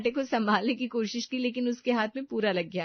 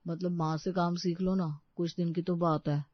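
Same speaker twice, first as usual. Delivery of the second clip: ordinary talk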